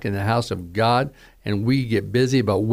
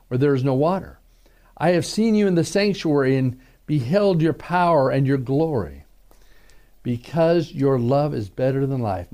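psalm reading. Acted. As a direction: let the words pray themselves, unhurried. Reads Psalm sixty-three aloud.

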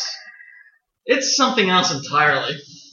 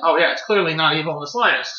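dry sarcasm; sarcastic. Real, not acted. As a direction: drip with sarcasm. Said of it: "dripping with sarcasm".

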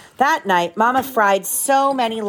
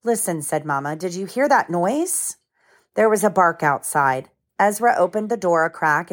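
gentle storybook read-aloud; lively picture book narration with voices; reading to children. A narrator's reading.

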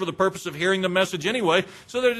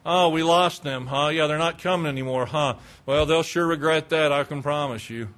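low, offhand mock concern; acting an unbothered churchgoer; indifferent; 5 semitones lower than usual. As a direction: shrug off the loss.

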